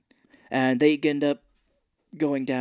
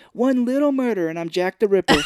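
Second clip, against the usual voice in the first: laughing through the line; 7 semitones higher, 7 dB louder than usual. Retold or imitated. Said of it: "a funny line where he's like".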